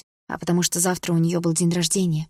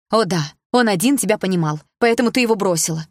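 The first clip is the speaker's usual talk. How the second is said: angry sarcasm; 3 semitones higher, 5 dB louder than usual. Acted. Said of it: "заметила я".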